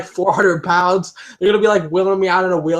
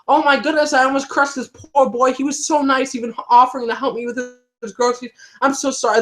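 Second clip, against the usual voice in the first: put-on old lady voice; 7 semitones higher than usual. Voicing old lady to another lady.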